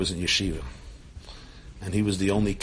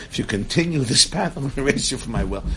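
firmer, punchier retold threat; fearless warning; 3 semitones higher than usual. Grandfather warns his son in the meeting, fearless. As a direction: deliver the ultimatum with brisk, fearless force. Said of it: "Classic Holocaust survivor who's fearless".

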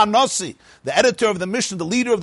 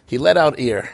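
laughing; 4 semitones lower than usual. Real, not acted.

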